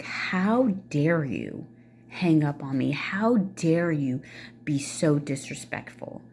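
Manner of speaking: mildly hammed-up indignation, stretching "how dare you"; indignant parent. Parent calling back after being hung up on, indignant. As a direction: imitate slow, scandalized scolding. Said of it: "they would call you back and be like".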